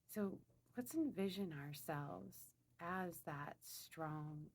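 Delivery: unhurried meditation voice with long pauses; slow, spaced-out affirmations, calmly led; guided meditation. Real, not acted. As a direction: guide them inward, phrase by phrase. Leads a meditation.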